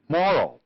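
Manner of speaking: moral, stressed on MO, falling tone; word-list moral with a strong MO; stress on first syllable. Shown as a demonstration. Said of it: "mark the stressed syllable".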